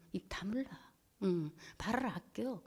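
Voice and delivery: very soft whisper, slowing at the end; whispered order. Retold or imitated. Wife reminding husband to keep quiet, whispered. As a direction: hush them slowly, barely voiced. Retold hushed order to be silent.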